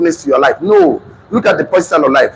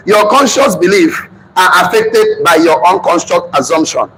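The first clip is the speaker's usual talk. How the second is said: slow, spaced dictation for note-taking; slower than usual. Shown as a demonstration. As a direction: read it out slowly so they can write it down. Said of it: "Write it down".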